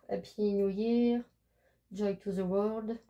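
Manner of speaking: slow English with a French accent. Real, not acted. Crafter reading card captions to viewers, French-accented English. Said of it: "Excusez-moi pour mon accent".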